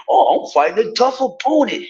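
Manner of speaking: high-pitched mock bragging; mocking boast. Mocking a boxer's opponent claim, derisive high voice.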